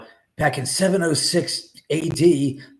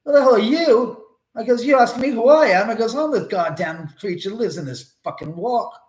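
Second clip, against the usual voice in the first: angry monster shout; 9 semitones higher, 6 dB louder than usual. Retold or imitated. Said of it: "And I said".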